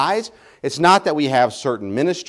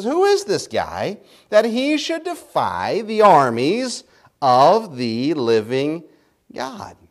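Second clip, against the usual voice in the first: indignant; slower than usual. Retold or imitated. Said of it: "he says".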